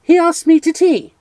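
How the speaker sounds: high, loud, each word spelled out; spelling out carefully. Acted. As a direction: speak as if to a fool, word by word. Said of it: "spelling the words out carefully".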